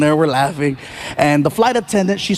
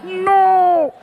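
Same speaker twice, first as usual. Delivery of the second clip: 1 horrified no; 10 semitones higher than usual. Retold or imitated. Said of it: "and you're like".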